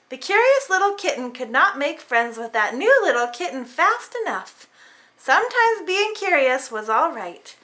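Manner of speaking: lively storybook reading; reading to children. A narrator's reading. Parent reading a picture book to kids, lively. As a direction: read it like bedtime for little ones.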